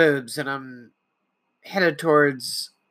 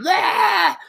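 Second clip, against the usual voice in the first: mock angry yell; 6 semitones higher than usual. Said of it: "run around going".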